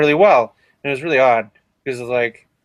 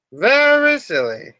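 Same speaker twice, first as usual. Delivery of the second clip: mock silly; 9 semitones higher, slower than usual. Mocking own silliness.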